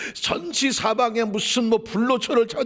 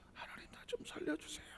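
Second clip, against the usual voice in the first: higher, breathy whispered begging; whispered plea; 6 semitones higher, 23 dB quieter than usual. Acted. Hezekiah begging God to save him, whispered. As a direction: plead under your breath.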